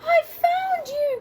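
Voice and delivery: high, slow joyful exclamation; delighted cry. Acted. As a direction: burst out with a big grin. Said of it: "cried George with a big happy grin".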